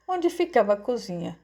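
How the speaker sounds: ordinary delivery, nothing marked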